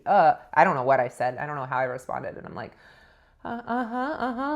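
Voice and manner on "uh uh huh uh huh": shell-shocked. Retold or imitated. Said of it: "like, shell-shocked".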